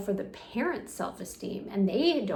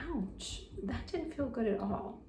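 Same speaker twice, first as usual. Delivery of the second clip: gentle boundary; 3 dB quieter than usual. Shown as a demonstration. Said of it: "and say".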